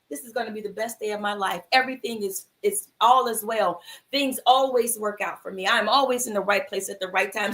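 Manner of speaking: affirmation. Retold or imitated. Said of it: "I'm speaking these words".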